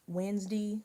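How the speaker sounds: "Wednesday" said as wenz-dee; local pronunciation. Shown as a demonstration. Friend showing how locals say "Wednesday", ending in dee. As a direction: clip the end of "Wednesday" to a short dee. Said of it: "Some people say Wednesday".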